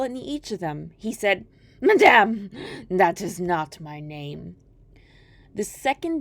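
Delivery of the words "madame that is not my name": a loud Madame then slow smug refusal; a lightly voiced mocking imp; gloating dwarf. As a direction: savour the refusal. Dwarf rejects guesses.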